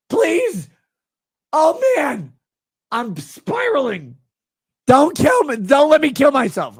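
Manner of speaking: high loud whine; mocking whiny voice. Mocking the begging.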